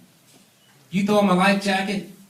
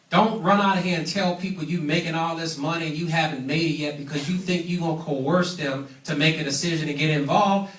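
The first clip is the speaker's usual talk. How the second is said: normal talking voice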